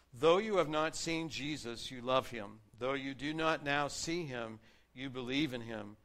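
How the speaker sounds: warm proclaimed reading; scripture reading. Acted. Pastor reading First Peter to his church, joyful. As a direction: read Peter's words with joy.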